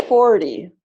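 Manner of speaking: "forty" with FOR loud and strong; stress on first syllable. Shown as a demonstration. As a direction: model "forty" as FOR-ty. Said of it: "is the first syllable".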